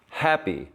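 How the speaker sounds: "happy" as HAP-py, falling away on the second syllable; strong HAP, low light py; stress on first syllable. Shown as a demonstration. Teacher confirms normal stress to class, HAP-py falling. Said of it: "normally the word happy is happy".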